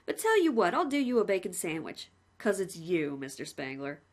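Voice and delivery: lightly voiced cheerful jailer; a hint of a chummy warden; a plain-spoken warder reporting to the condemned man, lightly voiced; polite prison warden. Warden speaks.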